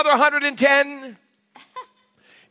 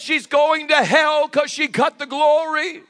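higher, slow mock wail; mock tearful husband; 4 semitones higher, slower than usual. Husband condemning his wife's haircut to pastor, mock tearful. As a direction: imitate a husband lamenting, stretched out. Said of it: "But he starts crying".

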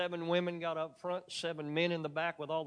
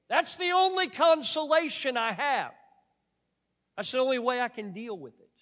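1 emotional outburst; 8 semitones higher, 10 dB louder than usual. Real, not acted. Preacher's emotional peak on Haiti.

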